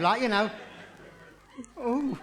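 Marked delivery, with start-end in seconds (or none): 1.8-2.2 high imitated moan; distant cry. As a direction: wail a small, high "oh". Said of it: "I heard a cry in the distance like".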